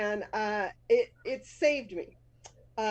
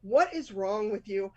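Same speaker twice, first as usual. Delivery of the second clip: mild angry mom; 2 semitones higher than usual. Retold or imitated. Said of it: "So she's just like".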